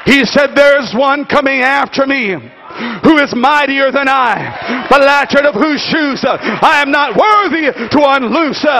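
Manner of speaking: emphatic sermon delivery with punched phrases; full-force preaching. Acted. Preacher acting out John's answer to the congregation, full-force preaching.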